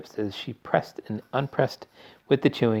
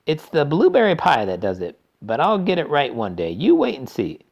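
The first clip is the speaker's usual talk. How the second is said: rueful chocolatier voice; 6 semitones higher, 6 dB louder than usual. A narrator's reading. Wonka rueful.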